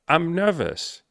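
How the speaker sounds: high-pitched mock-female plaint; imitated nervous woman. Coach replaying her nervous admission, high mock-female voice.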